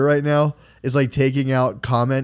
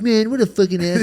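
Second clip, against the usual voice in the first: irritated at comments; 8 semitones higher than usual. Retold or imitated. Muttering at YouTube comments.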